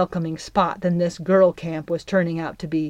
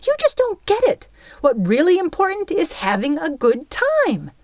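high, biting snarl of scorn; 5 semitones higher, 3 dB louder than usual. A narrator's reading. Belle snarling at Trouble about having fun. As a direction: snap it back at her, full of contempt. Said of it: "she snarled".

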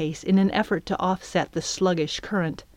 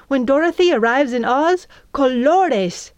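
higher and louder, bubbling over; eager girl who can't sit still; excited; 7 semitones higher, 5 dB louder than usual. Acted. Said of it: "Flim wiggled in her seat, excited".

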